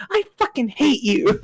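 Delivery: mock exasperation. Retold exasperated team lead.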